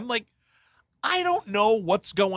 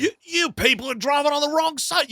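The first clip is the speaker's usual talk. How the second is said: high, shouted complaint; outraged driver; 10 semitones higher than usual. Acted. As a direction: yell at him from the street.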